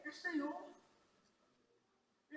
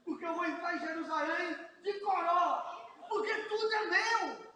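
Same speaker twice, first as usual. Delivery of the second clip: firm demand; 5 dB louder than usual. Acted. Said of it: "fala com o cara".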